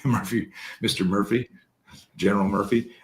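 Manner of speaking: playful name upgrades; teasingly promote Murphy to "Mister Murphy" then "General Murphy"; mock titles. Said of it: "I'm making fun".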